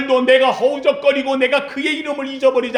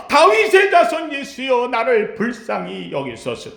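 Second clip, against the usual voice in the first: the beggar calls out boldly; crying out boldly; 2 semitones higher than usual. Shown as a demonstration. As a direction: shout it with no shame. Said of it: "소리 지르는 겁니다".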